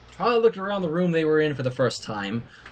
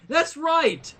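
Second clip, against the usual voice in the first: crowd cry; 10 semitones higher than usual. Acted. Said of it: "followed by cries of".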